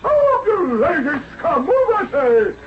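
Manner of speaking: harsh yelled commands; barking orders. Acted. Overseer shouts at the slaves while whipping them.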